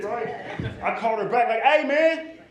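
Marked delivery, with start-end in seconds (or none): 1.6-2.4 high, loud complaint to the doctor; upset on the phone. Retold or imitated. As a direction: whine it loud and high, half laughing.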